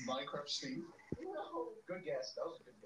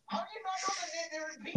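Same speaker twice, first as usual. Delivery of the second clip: exasperated; 11 semitones higher, faster than usual. Real, not acted. Exasperated outburst.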